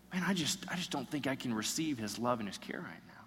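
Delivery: whispered, soft confession; despairing whisper. Retold or imitated. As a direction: breathe out the doubt almost silently. Voices a despairing believer.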